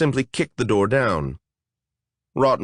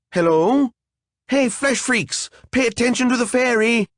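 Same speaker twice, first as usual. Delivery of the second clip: much higher, whiny fairy tantrum; whining tantrum; 12 semitones higher than usual. Acted. A fairy demanding the monsters listen, shrill whining tantrum. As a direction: stamp and whine like a spoiled child. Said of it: "her voice pitched into a whine".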